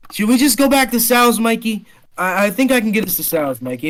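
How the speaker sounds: put-on drunk, slurry New Yorker, loud and high; a sloppy drunk New York wiseguy; bad New Yorker accent. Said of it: "you did your bad New Yorker accent".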